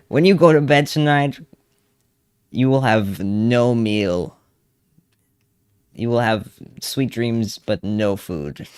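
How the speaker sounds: slow, drawn-out, mock-sweet parting words; slow mock goodnight. Worker slowly telling the caller she gets no food. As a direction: drag it out like a mock bedtime wish.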